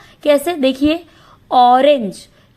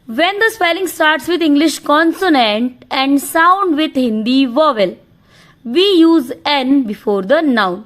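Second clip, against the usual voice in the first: slow dictation; much slower than usual. Shown as a demonstration. Teacher dictating a grammar rule to the class, slowly. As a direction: read the rule out slowly, word by word, so students can write it.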